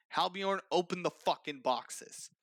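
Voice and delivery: an officer losing patience, giving an order; pissed off. Acted. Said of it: "Alistair's pissed".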